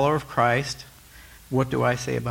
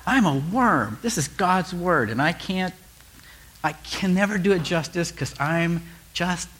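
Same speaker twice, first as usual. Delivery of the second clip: mock self-abasement; 5 semitones higher than usual. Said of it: "the other part of me goes".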